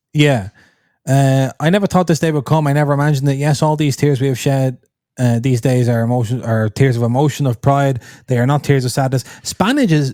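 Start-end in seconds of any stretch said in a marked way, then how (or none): none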